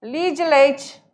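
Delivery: Litro de leite squeezed to "lidileite"; run together. Shown as a demonstration. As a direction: swallow the vowels of Litro de leite. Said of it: "Bem juntinho".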